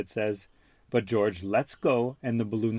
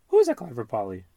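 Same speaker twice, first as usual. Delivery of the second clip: parrot echo; 5 dB louder, faster than usual. Acted. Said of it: "repeats Polly Parrot".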